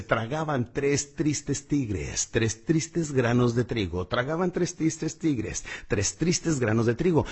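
every syllable spelled out slowly; slow, exaggerated lip work on each word; slow tongue twister. Shown as a demonstration. Coach shows the diction drill, slow and deliberate. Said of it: "Hay uno muy bueno que dice".

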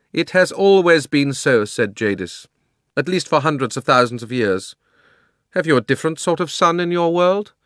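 loud, high, imperious queen voice; haughty queen's loud grievance; proud queen. A narrator's reading. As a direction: rant like a wronged tyrant queen.

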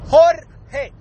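"Jorge" slowly, in two split syllables; Puerto Rican R. Shown as a demonstration. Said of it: "I fuck it up too".

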